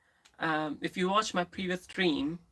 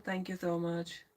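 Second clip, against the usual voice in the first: whisper; 6 dB quieter than usual. Real, not acted. Thanking a viewer softly.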